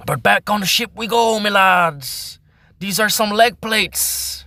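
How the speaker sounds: rally the crew like a pirate; hammed-up ship captain; hearty pirate captain. Pirate captain calling to lads.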